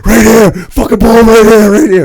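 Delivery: shouting directions at the fleeing driver; retold shout. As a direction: call it out hard, pointing him over. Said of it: "I'm like".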